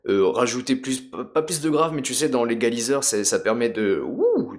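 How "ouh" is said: higher-pitched hoot; rising "ooh". Shown as a demonstration. Showing what the equalizer does, rising "ooh". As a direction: imitate the boost with an "ooh". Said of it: "de monter un peu plus".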